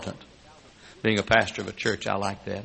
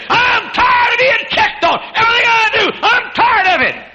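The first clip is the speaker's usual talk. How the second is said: mock teenager; 9 dB louder than usual. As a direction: play the fed-up teenager. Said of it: "some of you teenagers say".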